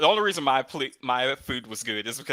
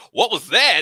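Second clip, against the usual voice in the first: surprised; 10 semitones higher, 11 dB louder than usual. Retold or imitated. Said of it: "And they would be like".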